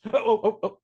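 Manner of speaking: high, loud mock wake-up yelps; startled awake. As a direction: play jolting out of a doze. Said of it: "I nodded off a time or two".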